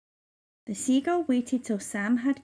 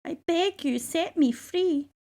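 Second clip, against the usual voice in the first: begging; 7 semitones higher than usual. A narrator's reading. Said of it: "again she said".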